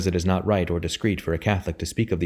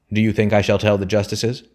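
louder, forceful repeat of a demand; insistent roar; 2 semitones higher, 5 dB louder than usual. A narrator's reading. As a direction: press the question hard, a contained narrator's roar. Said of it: "roared the man insistently".

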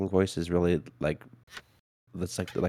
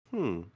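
soft hum; 3 semitones higher, 7 dB quieter than usual. Shown as a demonstration. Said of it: "if I just go like".

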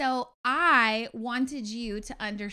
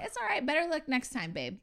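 higher, easy-going consolation; light reassurance; 4 semitones higher than usual. Retold or imitated. Wife showing husband better words, breezy and higher. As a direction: show how simple comfort sounds. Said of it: "You could have just said".

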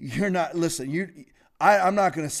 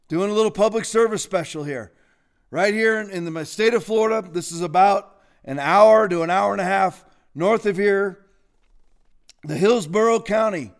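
sarcastic. Real, not acted. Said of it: "Am I being sarcastic? Yes".

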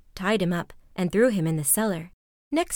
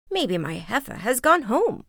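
mildly raised, higher exclamation; crying out; 4 semitones higher than usual. A narrator's reading. Old woman misses her heifer, mildly crying out. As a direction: lift it a little, as a cry. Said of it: "she cried".

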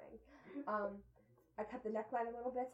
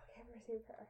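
whisper; 7 dB quieter, much faster than usual. Real, not acted. Aside to table.

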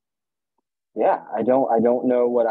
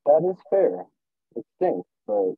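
speaking around a retainer; words blurred by a retainer; wearing a retainer; 4 semitones higher than usual. Real, not acted. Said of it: "I also have my retainer in".

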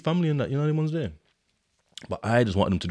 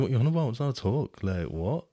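retold disbelief; 3 semitones higher than usual. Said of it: "first I'm thinking".

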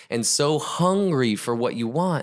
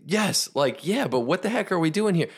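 high-pitched, baffled protest; agree, then demand an explanation; acted student exasperation; exasperated yes; 6 semitones higher than usual. Dunked student answers, protesting.

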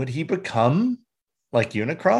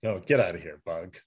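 muttering; 7 semitones lower, 6 dB quieter, faster than usual. Real, not acted. Shooing a bug.

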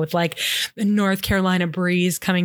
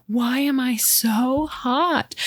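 whisper; 4 semitones higher, much slower than usual. Acted. Claire wakes up too hot.

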